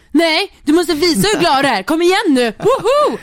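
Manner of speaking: loud, high pumped-up cheering; mock a hype man forcing joy out of someone; over-the-top hype. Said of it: "du går bara till det extrema".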